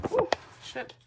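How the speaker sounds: sudden high yelp of surprise; surprised. Real, not acted. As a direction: caught off guard by the pan. Pan mishap.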